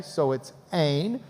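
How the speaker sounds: "ein" said as a long E with a nasal N, drawn out. Shown as a demonstration. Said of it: "a long E with an N sound".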